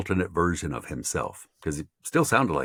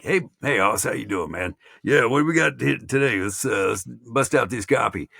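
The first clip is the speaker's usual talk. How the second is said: hillbilly; 6 semitones higher than usual. Retold or imitated. Radio man greeting the host off mic, hillbilly. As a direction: greet a buddy in a hillbilly accent. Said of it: "he was the hillbilliest hillbilly".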